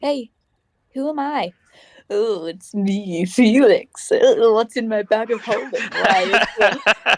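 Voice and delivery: lightly put-on mock character voice; Felix. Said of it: "doing an impression of Felix".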